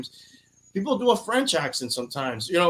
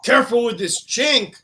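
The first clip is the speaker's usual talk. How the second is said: mock slur quote; 8 semitones higher, 6 dB louder than usual. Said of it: "He didn't say".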